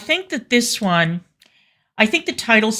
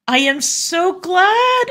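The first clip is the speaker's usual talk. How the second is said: much higher, slow sarcastic squeal of delight; mock squeal; 12 semitones higher, slower than usual. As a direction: squeal it like a gushing fan. Mock gushing reply to fan.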